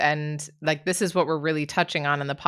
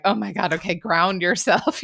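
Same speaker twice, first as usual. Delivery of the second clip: laughing, calming herself down; laughing self-pep talk; 3 semitones higher than usual. Retold or imitated. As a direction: chuckle while telling yourself to settle. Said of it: "And then I'm like".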